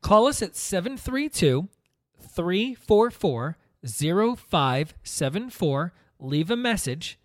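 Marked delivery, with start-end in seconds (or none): 0.0-5.9 slow, clear number read. Shown as a demonstration. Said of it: "tell the number again".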